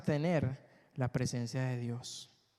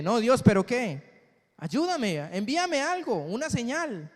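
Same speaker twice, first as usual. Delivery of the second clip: whiny plea; 6 semitones higher, 4 dB louder than usual. Retold or imitated. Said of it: "seguimos diciendo".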